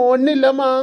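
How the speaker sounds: tearful son brushing off his mother; acted weepy voice; crying. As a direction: sob out a denial. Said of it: "என்னத்துக்கு இப்படி கிடந்து அழுற".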